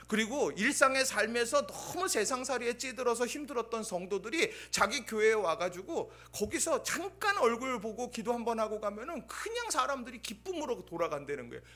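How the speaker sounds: ordinary talk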